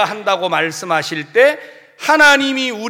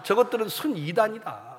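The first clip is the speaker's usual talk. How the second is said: scornful accusation; 3 semitones higher than usual. Retold or imitated. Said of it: "이렇게 말하는 거예요".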